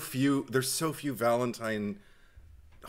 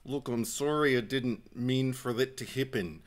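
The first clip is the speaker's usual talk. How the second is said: put-on Canadian accent through a clenched jaw, kept down; 2 semitones lower, 6 dB quieter than usual. Quoting the movie lead's apology, clenched-jaw Canadian imitation. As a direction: lightly imitate a tight-jawed Canadian. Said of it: "like he's got a clenched jaw".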